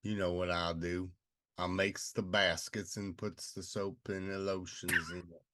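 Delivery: lightly played Mississippi country accent; mock southern accent. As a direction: play a southern basket maker, country accent. Plays Leroy, southern basket maker.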